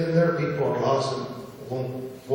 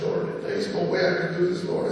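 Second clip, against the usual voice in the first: higher, urgent plea to God; desperate pleading prayer; 7 semitones higher than usual. Retold or imitated. Man retelling his prayer to God, pleading. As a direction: beg the Lord for mercy.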